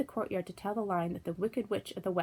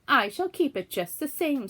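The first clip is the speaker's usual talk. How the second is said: higher, louder gloating witch; mocking witch; 7 semitones higher, 6 dB louder than usual. A narrator's reading. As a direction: taunt her like a witch. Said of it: "laughing at her".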